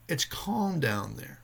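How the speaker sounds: slow, soothing words; slow calm reassurance. Retold or imitated. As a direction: ease a panicked diver, slowly. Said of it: "He said".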